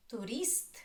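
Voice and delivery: "Tourist" stressed on the final rist; stress on second syllable. Shown as a demonstration. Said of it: "The second is stressed".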